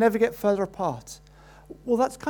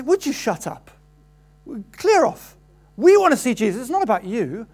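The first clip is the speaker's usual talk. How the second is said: annoyed crowd; 2 semitones higher, 5 dB louder than usual. Acted. Crowd hushes the beggar.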